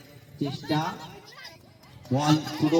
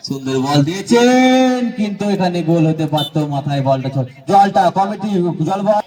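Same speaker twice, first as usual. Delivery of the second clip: frantic football commentary; 5 dB louder than usual. Real, not acted. Chance near goal.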